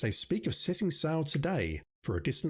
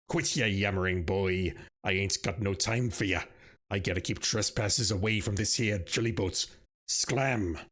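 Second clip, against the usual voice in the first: put-on lower, growling pirate-ish old salt; gruff old sailor; 5 semitones lower than usual. Old sailor shooing the player off the jolly boat, in a low growl. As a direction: growl it out like a grumpy dock sailor. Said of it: "I'm so sorry about that voice".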